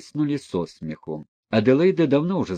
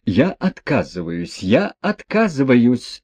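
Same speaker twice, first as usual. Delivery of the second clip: second refusal louder, slowed and insistent; refusing, flustered; 2 semitones higher, 3 dB louder than usual. Acted. Mother refusing her husband's plea, flustered and louder. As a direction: wave it off, I want no part. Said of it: "замахала руками".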